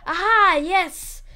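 loud, high aha of discovery; sudden triumph. Real, not acted. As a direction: exclaim as the idea hits you. Has a sudden idea.

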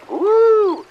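very high, loud cheer; excited whoop. Acted. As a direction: whoop with joy.

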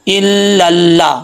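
"इल लल्ला" slowly, each doubled l held; shadda demo. Shown as a demonstration. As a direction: lean into both ल of "इल लल्ला". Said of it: "तो कैसे पढ़ेंगे". ("इल लल्ला" में लाम पर शद, रुककर पढ़ें)

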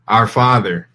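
solemn, measured Lord's Prayer recitation; reciting prayer. Real, not acted. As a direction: lead the group in prayer, slow, drawn-out phrases.

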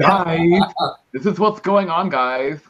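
high-pitched playful lisp; mock lisp. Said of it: "say it with a lisp like that".

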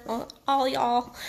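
slow mixed New York-Texas accent. Real, not acted. Coach repeating it for all her listeners, Texas accent. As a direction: draw it out with a light Texas twang. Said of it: "Texas accent".

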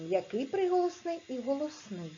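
ordinary talk

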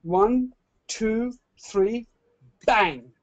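loud, rising build to a shouted bang; showman countdown. Acted. Magician counting down to the vanish for the webinar audience, loud showman build. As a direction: count it down like a stage magician, then hit bang.

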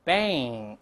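bang drawn out with a front "eh" vowel; correct pronunciation. Shown as a demonstration. Teacher repeats for practice, bang as drawn-out "baeng". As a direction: say bang as "baeng", closing on a nasal ng. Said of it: "再来一遍".

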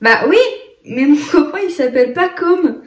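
put-on high, eager little boy. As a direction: play the excited toddler. Mother voicing her small son. (petite voix d'enfant)

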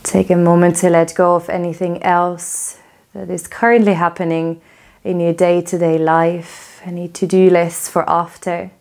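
calm, even guiding voice with long pauses; yoga teacher settling the class into stillness; guided relaxation. Real, not acted. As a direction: ease them into letting go, unhurried.

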